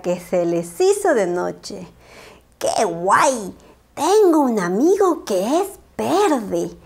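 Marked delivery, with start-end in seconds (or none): 2.6-6.8 Petra voice. Acted. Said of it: "decía Petra".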